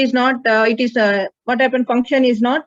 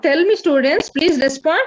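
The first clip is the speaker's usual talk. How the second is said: higher, urgent plea to the class; pleading call; 5 semitones higher than usual. Real, not acted. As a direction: coax the silent students to answer. Teacher begs silent class to answer.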